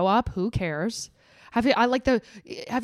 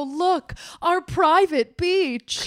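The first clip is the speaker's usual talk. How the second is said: mock posh; 2 semitones higher, much slower than usual. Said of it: "they go".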